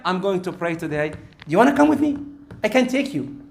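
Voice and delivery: gentle invitation. Acted. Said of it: "go and talk to him nicely".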